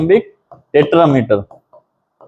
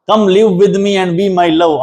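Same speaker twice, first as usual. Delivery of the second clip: poem recitation; much slower than usual. Shown as a demonstration. Teacher recites poem line.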